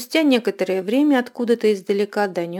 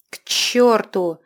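a slow, louder furious bark; furious outburst; 5 dB louder, much slower than usual. A narrator's reading. Ghost bursting out at his brother in fury. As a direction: explode in rage at him. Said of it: "яростно взорвался призрак".

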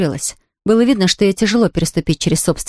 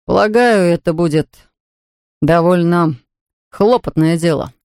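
through gritted teeth. A narrator's reading. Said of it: "сквозь зубы процедил Джимми".

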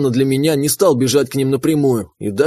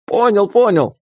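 hasty creature agreement; 7 semitones higher than usual. Acted. Pet hastily agrees.

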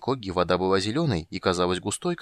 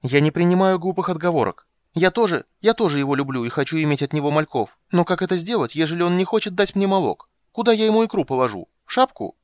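much higher, louder aggrieved siren; offended siren; 10 semitones higher, 6 dB louder than usual. Acted. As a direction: lecture him like a wronged sea maiden. Siren voiced in high register.

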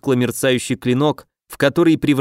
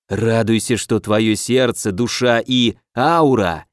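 gloating villain; 4 semitones lower, slower than usual. Acted.

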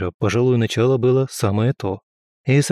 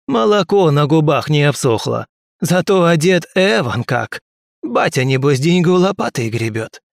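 mocking drunk man; 7 semitones higher, 4 dB louder than usual. Drunk man mocks Boris.

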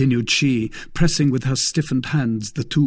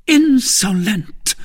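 loud, higher slow outburst; furious cry; 12 semitones higher, 7 dB louder, slower than usual. Acted. Milady lashing out at the Baron, loud. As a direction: spit the insult at him. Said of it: "cried Milady".

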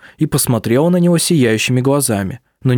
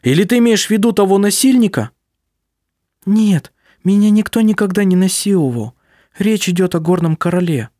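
agitated; 8 semitones higher than usual. A narrator's reading. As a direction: push it up with alarm. Agitated exchange.

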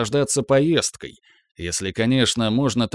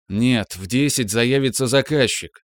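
raised voice, feigned restrained anger; shaking with anger. Acted. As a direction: play at losing patience, voice raised. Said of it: "перешёл на повышенный тон, якобы теряя терпение".

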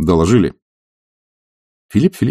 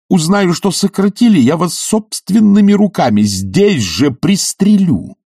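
high, slow, raised menace; threatening; 8 semitones higher than usual. A narrator's reading. Bormenthal grips Sharikov's jacket and threatens to shoot him.

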